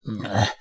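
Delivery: low strained groan; hissed grunt. A narrator's reading. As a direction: grunt with effort through the teeth. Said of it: "I hissed".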